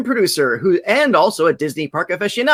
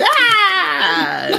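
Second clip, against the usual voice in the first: drawn-out mock cheering "ah"; 10 semitones higher than usual. Host imitating the cheers for late arrivals, mock cheer. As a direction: imitate a welcoming yell.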